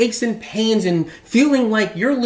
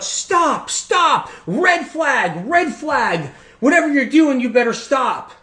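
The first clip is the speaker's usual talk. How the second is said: mock alarm; 5 semitones higher, slower than usual. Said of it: "you end up saying".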